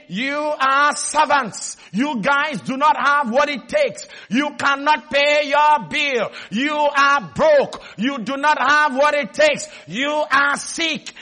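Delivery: slow, hammered-out accusations; relentless taunting. Retold or imitated. Preacher voicing Goliath's taunts to the listeners, slow and relentless. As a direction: pound out each taunt slowly and deliberately.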